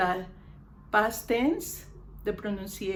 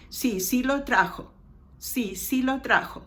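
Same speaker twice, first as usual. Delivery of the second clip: doubled Sí, sí with firm weight; emphatic double sí. Shown as a demonstration. Teacher gives Spanish equivalent, insisting with double sí. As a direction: insist on the second sí. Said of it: "That's the equivalent to our double".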